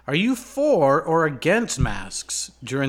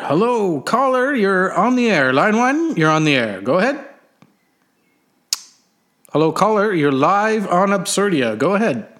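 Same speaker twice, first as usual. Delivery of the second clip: smooth radio host; 3 semitones higher, 5 dB louder than usual. Acted. Host greeting caller on radio.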